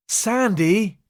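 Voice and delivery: high startled shout of his name. Acted. Baines startled, shouting at the pilot. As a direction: snap his name out in fright. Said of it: "shouted Baines".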